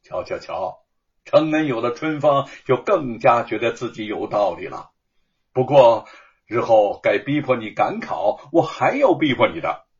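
teasing, put-on grumble; mock displeasure. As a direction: pretend to be annoyed with a grin. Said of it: "故意有些不满地说".

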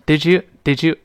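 "Did you" run together with a clear j; teacher's demo of linked "Did you", j clear. Shown as a demonstration. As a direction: model "Did you" as one blended sound. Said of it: "这么一个声音啊".

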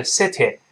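"city" ending in EH instead of EE; "city" with an open EH at the end; wrong final vowel. Shown as a demonstration. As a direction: demonstrate the error "sih-teh" for "city". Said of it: "也不是city".

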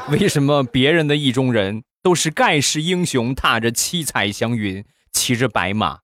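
mock-despairing little niece; 生无可恋. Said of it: "一脸生无可恋的对我说". (学小侄女生无可恋地哀叹)

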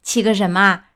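mocking, laughing retort. Pinocchio mocks the gang, laughing. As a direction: laugh it in their faces. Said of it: "匹诺乔大笑着说".

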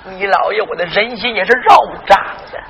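a touch of tears in the voice; crying confession. Acted. Grandfather to grandson about his daughter, tearful. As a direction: choke up over his daughter.

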